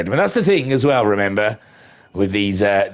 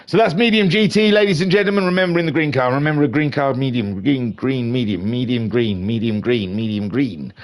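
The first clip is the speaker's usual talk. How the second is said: winding-down repetition. Pretend. Commentator drums the green car into viewers, winding down. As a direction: rattle it round like a fading memory chant. Repeating name and colour, winding down.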